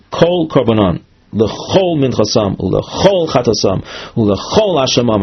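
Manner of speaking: intoned reading that picks out every "kol"; emphasis on kol. Shown as a demonstration. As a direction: stress each "kol" and "chol" as the verse is read. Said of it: "through our intonation that we emphasize the word kol".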